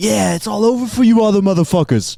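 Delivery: put-on hype DJ-style voice. Pretending to close a podcast as its hype DJ: a famous DJ's hype voice. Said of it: "the hype DJ of a podcast ... be like".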